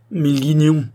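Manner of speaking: loud, high-pitched lament; dismayed curse. A narrator's reading. Distressed young man over the injured doctor, loud dismayed curse. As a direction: curse your bad luck in distress. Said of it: "répétait Santenoge désolé".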